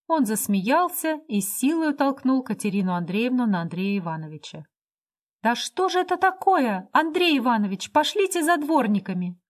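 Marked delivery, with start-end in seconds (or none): 5.4-9.4 much higher, urgent cry for help; alarmed exclamation. A narrator's reading. Katerina crying out after being shoved, alarmed and high. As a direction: call out in shock. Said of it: "воскликнула Катерина Андреевна".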